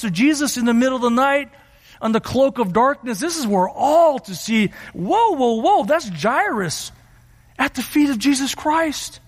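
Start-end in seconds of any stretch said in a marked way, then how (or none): 4.9-9.2 acted disbelief, pitch lifted; mildly hammed-up shock in the crowd; astonished onlooker. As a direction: react like a stunned bystander. Voices crowd shocked at seeing Jairus.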